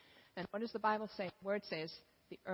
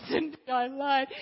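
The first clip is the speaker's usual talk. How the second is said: confession; 5 semitones higher, 7 dB louder than usual. Acted. Confessing to wife.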